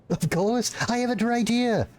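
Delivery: a hint of a starstruck fan; eager.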